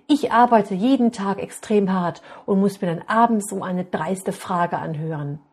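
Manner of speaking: a father angrily telling off his son and sending him to bed; very angry father. Acted. Loud angry scolding of the son. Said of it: "Da sagt der Vater sehr verärgert".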